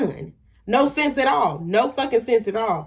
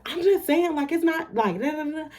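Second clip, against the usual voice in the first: mocking the girl; 7 semitones higher than usual. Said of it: "And then she like".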